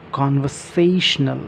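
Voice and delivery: Conversational slow, big stress on SA, small on CON; two accents. Shown as a demonstration. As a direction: say it slowly with a strong and a light stress. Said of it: "छोटा सा accent देना है". (दो accent के साथ धीरे उच्चारण)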